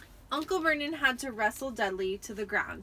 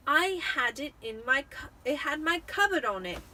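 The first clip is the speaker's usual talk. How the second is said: angry; 4 semitones higher, 4 dB louder than usual. A narrator's reading. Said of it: "said Harry angrily".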